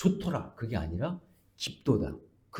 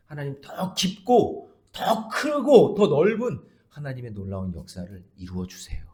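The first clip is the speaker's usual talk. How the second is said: rising, louder plea to God; fervent prayer; 3 semitones higher, 4 dB louder than usual. Real, not acted. Pastor crying out to God in prayer, louder.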